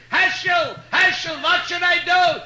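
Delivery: high, loud, slow comic scream for Heschel; mock scream. Wife grabbed by gorilla yells for Heschel, mock scream. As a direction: wail his name out loud in mock panic. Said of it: "She's screaming".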